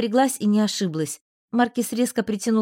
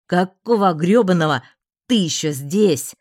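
barking; 6 dB louder than usual. Acted. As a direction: bark it at her furiously. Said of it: "рявкнул".

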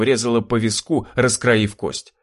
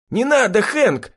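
pleading cry; 12 semitones higher than usual. A narrator's reading. Lanky man begs his friend Hank to spare him, high and panicked. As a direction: beg the friend not to shoot. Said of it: "воскликнул Долговязый".

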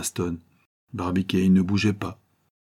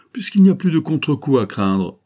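higher, louder, inviting voice; engaging tone; 7 semitones higher, 5 dB louder than usual. A narrator's reading. Ardan persuades both rivals to join him, engagingly. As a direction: cheerfully coax them to agree. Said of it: "de son ton le plus engageant".

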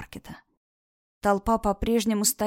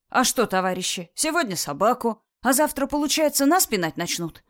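fiery revolutionary speech; 3 semitones higher than usual. Acted. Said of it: "Продолжал митинговать молодой человек".

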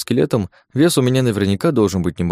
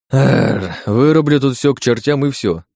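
higher, fed-up outburst; frustrated outburst; 5 semitones higher than usual. Acted. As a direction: blurt it out in frustration. Fed up with the stalking tendrils.

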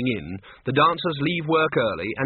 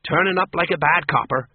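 higher, cheery watchman banter; cheerful watchman; 4 semitones higher, 4 dB louder than usual. A narrator's reading. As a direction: make a cheery joke at your own expense. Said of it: "said the watchman cheerfully".

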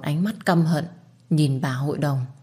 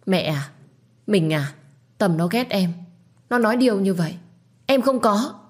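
panicked denial; 4 semitones higher than usual. Acted. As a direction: voice climbing higher in panic. Wife pleads innocence in panic. (chối cãi hoảng hốt, giọng cao dần)

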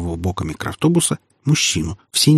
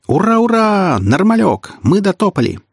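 excited; 11 semitones higher than usual. Acted. Sonya jumps with joy.

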